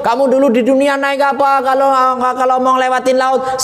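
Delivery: high, projected questioning; Jibril. Acted. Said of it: "maka malaikat Jibril".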